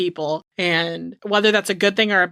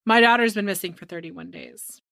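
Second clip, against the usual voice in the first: monotone. Retold or imitated. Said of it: "She's so monotone".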